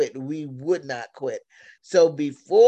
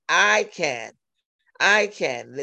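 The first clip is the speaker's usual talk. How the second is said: cocky; slower than usual. Retold or imitated. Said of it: "sounding a little cocky".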